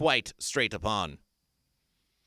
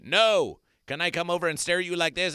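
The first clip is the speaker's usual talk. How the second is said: mock retort; 5 semitones higher, 3 dB louder than usual. Quoted reply in a dialogue.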